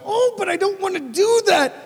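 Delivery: high whining protest; whiny inner voice. Pretend. Inner self whining against doing the right thing, high whine. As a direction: whine like a reluctant child. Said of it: "anything in you might go".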